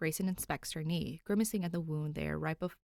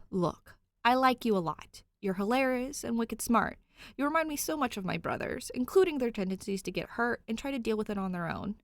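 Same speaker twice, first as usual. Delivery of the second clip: high, louder sincere appeal; earnest plea; 6 semitones higher, 4 dB louder than usual. Acted. Cop coaxing Danny, high and earnest. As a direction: win her over earnestly.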